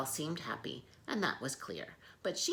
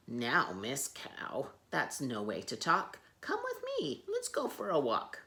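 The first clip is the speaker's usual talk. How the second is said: kind zookeeper. Acted.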